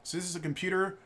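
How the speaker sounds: a light touch of an upbeat salesman's patter; sales pitch. Retold or imitated. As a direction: pitch the computer setup like a friendly store clerk. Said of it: "I'm going into my sales pitch".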